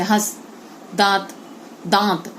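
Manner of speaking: दांत with a light nasal vowel, no hard n; chandrabindu demo. Shown as a demonstration. Teacher repeats दांत slowly for pupils, light nasal. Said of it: "थोड़ा नाक से देखना आवाज आती है".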